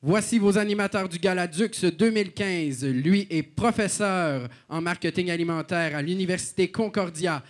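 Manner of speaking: announcer introducing the hosts; arena announcer. Acted. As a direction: announce them to the room. Gala host introductions.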